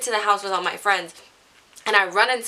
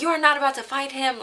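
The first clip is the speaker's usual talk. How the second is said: retold angry mom; 6 semitones higher than usual. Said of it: "she lost it".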